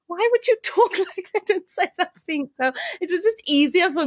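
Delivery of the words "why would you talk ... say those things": put-on prissy girl voice. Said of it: "girls would be like".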